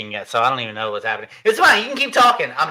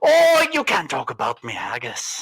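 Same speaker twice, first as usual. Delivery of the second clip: slow, lightly put-on Scottish brogue; mild mock Scottish; Scottish accent; slower than usual. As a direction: protest like an offended Scotsman. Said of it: "All right, Scotty".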